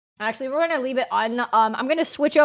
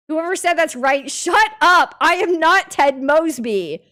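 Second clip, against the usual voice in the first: mock angry snap; 4 semitones higher, 4 dB louder than usual. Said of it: "it's not nice to tell people shut up".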